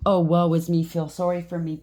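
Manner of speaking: mock the self-pitying victim. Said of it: "pity party".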